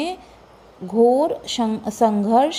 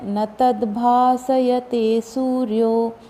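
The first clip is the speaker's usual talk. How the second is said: slow, measured chanting of the whole verse; full verse recitation; slower than usual. Shown as a demonstration. Teacher reading the whole verse aloud, slow chant. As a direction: recite the full shloka slowly. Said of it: "पूरा पढ़ते हैं".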